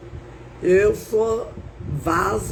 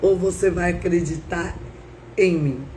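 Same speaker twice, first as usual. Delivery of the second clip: lightly voiced, measured divine challenge; voice of God; 2 semitones lower than usual. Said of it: "eu ouvi a voz de Deus".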